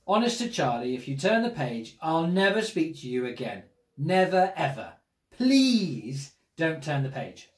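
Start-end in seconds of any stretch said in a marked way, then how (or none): 5.4-7.5 slow pleading. Acted.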